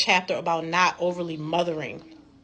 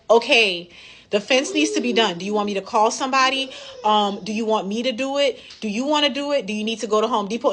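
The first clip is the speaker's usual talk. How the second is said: higher, rushed pile of questions; overwhelming barrage of questions; 4 semitones higher than usual. Retold or imitated. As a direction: flood him with options without waiting. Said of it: "overwhelming him with all of this stuff".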